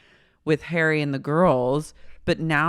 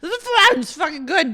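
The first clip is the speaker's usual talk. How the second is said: higher, lightly tipsy voice; drunk Miranda; 13 semitones higher, 5 dB louder than usual. Retold or imitated. Miranda praising the wine, lightly tipsy voice. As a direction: savor the wine a bit too much.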